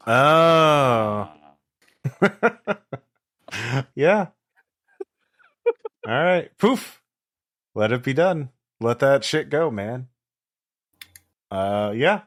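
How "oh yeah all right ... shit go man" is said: stoner voice. Acted. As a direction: grant the wish like a stoned guru. Stoner wizard granting wish.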